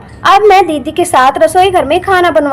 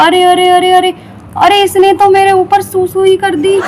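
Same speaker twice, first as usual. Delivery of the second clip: rising alarmed arre arre, then the outburst; like something warm just soaked your shirt; startled yell of disgust; shocked cry. Acted. Baby pees on father.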